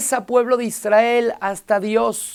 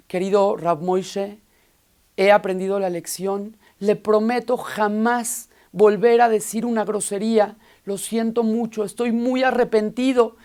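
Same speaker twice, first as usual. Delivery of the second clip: solemn contrite parrot. Acted. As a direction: sound truly sorry and grave. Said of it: "con mucha seriedad".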